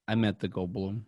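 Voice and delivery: lightly voiced character with long pauses; Christopher Walken. Guest begins story of meeting an actor, halting impression. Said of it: "Are you doing Christopher Walken".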